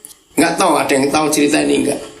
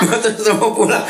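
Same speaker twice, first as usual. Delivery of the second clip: asked again through a laugh; 5 semitones higher, faster than usual. Shown as a demonstration. Preacher teasing the congregation whether to go on, laughing. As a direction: tease them with a chuckle in the voice.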